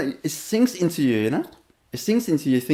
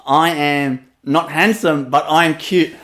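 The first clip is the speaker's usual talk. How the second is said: slow translation; 4 dB louder, slower than usual. Retold or imitated. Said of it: "That means I say".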